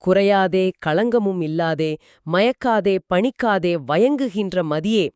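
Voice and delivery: measured, evenly pitched poem reading; verse recitation. Acted. Quoting the poet's moon verse to a co-host, measured recitation. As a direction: recite it line by line, a little low.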